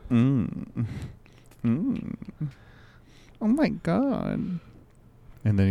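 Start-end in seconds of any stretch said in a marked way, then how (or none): 0.1-4.6 mock moaning. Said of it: "he's like".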